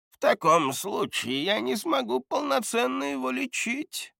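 put-on high, thin voice of an old healer; old man voice. Old healer Gerton speaks.

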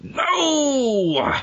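very high, long wailing no; hammed-up movie scream of despair; mock anguished cry. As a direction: wail it out, sliding down. Mock anguished cry in acted scene.

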